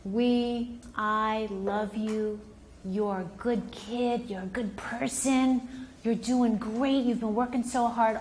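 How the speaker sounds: slow, gentle reassurance; validating parent. Shown as a demonstration. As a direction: soothe the kid with praise. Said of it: "you validate them first".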